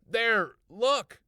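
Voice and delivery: high loud excited shout; urgent pointing. A narrator's reading. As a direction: point and make her look now.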